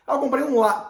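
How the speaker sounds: hammed-up joy at a purchase; mock happy announcement. Shown as a demonstration. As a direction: play up a delighted ah before the words. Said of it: "pô, não dá".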